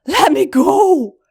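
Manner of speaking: loud, desperate holler into the dark; a scream to be let go. A narrator's reading. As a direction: yell it out, trapped and panicking. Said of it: "she hollered into the darkness".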